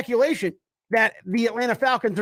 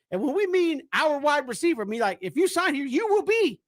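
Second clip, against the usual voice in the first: lightly acted, emphatic sales pitch; recruiting pitch; 5 semitones higher than usual. Team pitching Jarvis Landry a receiver job, mildly hammed-up persuasion. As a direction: sell it to the player, rising on the key promise. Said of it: "is that not the pitch?".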